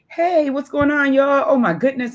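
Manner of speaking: casual church greeting. Retold or imitated. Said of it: "I'm talking regular with my cousins".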